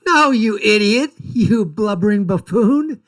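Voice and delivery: loud contemptuous put-down; angry retort. Real, not acted. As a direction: snap back at the clip in scorn. Retorts angrily to the played clip.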